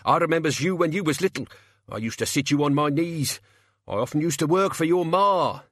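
high, hurried wheedling; anxious croaky appeal to old ties; pleading locksmith. A narrator's reading. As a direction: plead while dangling in midair. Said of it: "the locksmith croaked, struggling in midair".

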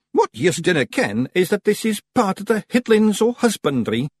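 high, urgent Scottish character voice; desperate Rob Anybody. A narrator's reading. Rob explaining husbandry to the Feegles, desperate. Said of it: "said Rob Anybody desperately".

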